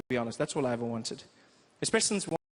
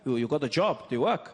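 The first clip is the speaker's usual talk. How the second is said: German dad. Retold or imitated. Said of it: "he goes".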